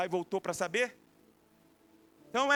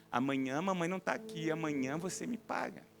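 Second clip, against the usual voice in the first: hushed threat; 4 semitones lower, 5 dB quieter than usual. Acted. Sister threatens while mom distracted.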